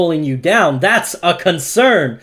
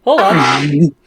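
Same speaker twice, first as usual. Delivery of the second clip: loud high whoa; startled, loud and high; surprised; 8 semitones higher, 5 dB louder, slower than usual. Real, not acted. GM surprised token missing.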